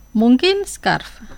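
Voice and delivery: "Mungkin scarf" drawn out slowly, each syllable clear; slow teacher demo of "Mungkin scarf"; slow model. Shown as a demonstration. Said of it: "Digo las palabras dos veces".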